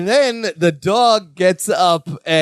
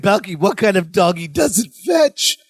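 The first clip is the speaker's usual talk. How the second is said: exasperated shout; 3 semitones higher than usual. Retold or imitated. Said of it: "Larry's like".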